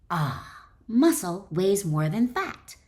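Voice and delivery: slow, knowing pronouncement; self-assured conclusion. Pretend. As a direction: settle it with mock certainty. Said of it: "you conclude".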